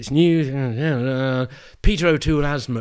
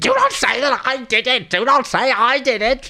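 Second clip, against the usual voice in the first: very high, sudden, piercing shriek; 10 semitones higher than usual. Describing the dinner with Banquo, act out his sudden outburst, imitating someone shrieking like Zippy. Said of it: "he suddenly starts sort of shrieking".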